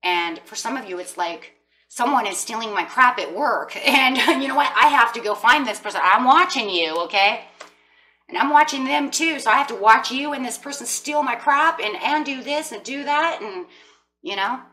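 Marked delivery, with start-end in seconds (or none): 1.9-13.4 louder and higher, fed-up mock rant; exasperated rant. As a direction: vent it like someone robbed at work, half laughing. Voicing client's work frustration.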